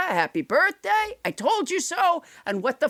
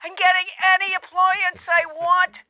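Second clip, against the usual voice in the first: breathless, panting caller; gasping for air between words; hyperventilating; 2 semitones higher than usual. Acted. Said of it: "you sound like you're hyperventilating".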